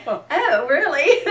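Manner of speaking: high, loud, laughing disbelief; laughing mock reaction. Reacting to smelly co-star, laughing.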